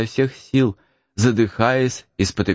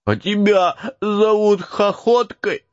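high slow hurt question; offended retort; 11 semitones higher, slower than usual. Acted. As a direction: answer back, offended. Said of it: "спросил обиженный Макс".

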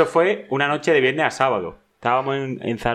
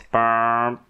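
long, level phone ringing tone; drawn-out imitation of a ringback beep; imitated ring tone. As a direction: hold one steady note like a dial tone. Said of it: "segundo tono".

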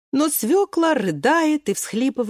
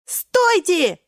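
high, loud stop call; Pea shouting; 10 semitones higher, 4 dB louder than usual. Acted. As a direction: halt everyone loudly. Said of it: "кричит Горошек". (Горошек кричит «стойте»)

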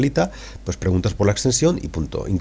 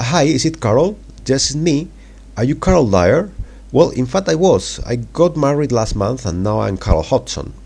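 lightly voiced woman, higher; Carol on the phone; 6 semitones higher, slower than usual. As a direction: Carol answering cheerfully, pitched up. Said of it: "os la voy a leer". (Carol contesta al teléfono con voz más aguda)

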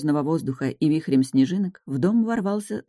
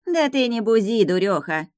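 peasant woman calming; 5 semitones higher than usual. Acted. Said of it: "успокоила одна из баб".

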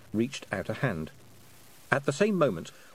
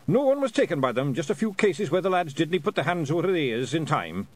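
calling up; 6 semitones higher than usual. Acted. Rob Anybody reporting to Tiffany from below, raised call. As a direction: keep calling up to her above.

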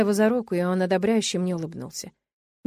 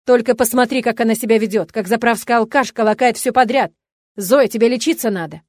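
loud berating; 2 semitones higher, 7 dB louder than usual. A narrator's reading. Father berating drunk wife.

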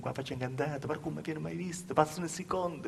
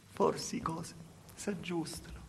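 whispered, a fragile hope; hopeful whisper; 5 dB quieter than usual. Acted. Girl whispering her hope to herself. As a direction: breathe it out as a secret wish.

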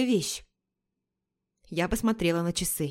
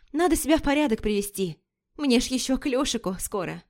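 put-on chatty girlfriend; 4 semitones higher than usual. Лика рассказывает, озвучена выше.

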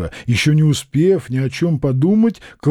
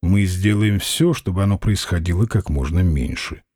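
calm them down gently; conciliatory; 8 semitones lower than usual. A narrator's reading. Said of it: "сообщил Старш примирительно".

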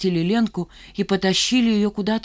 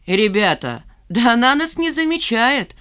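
loud, higher indignant cry; indignant shout; 4 semitones higher, 4 dB louder than usual. A narrator's reading. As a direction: shout in mock outrage. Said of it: "возмущённо закричал Лохматый".

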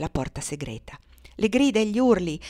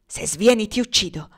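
fierce threat; 6 dB louder than usual. Acted. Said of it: "rispose Cassie traendo... un pugnaletto".

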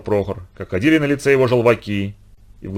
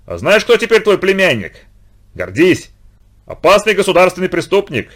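high, loud taunting outburst; loud near-hysterical; 7 semitones higher, 5 dB louder than usual. Acted. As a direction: shout it, tense and almost hysterical. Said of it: "Голос Прохора звенел громко, напряжённо, почти истерично".

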